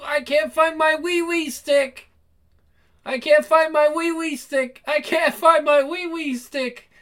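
high, panicky repeated cry; panicked whine. Acted. Bobby panicking about the bathroom.

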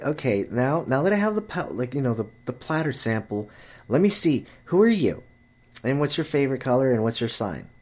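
a hint of a prying girl, some words quick; mock girl voice. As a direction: play a girl quizzing them. Imitating girl questioning them.

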